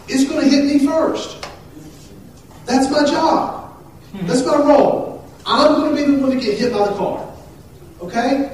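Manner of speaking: high, loud, insistent preaching; emphatic preaching. Real, not acted. Pastor explains his protective role on the sidewalk, emphatic preaching.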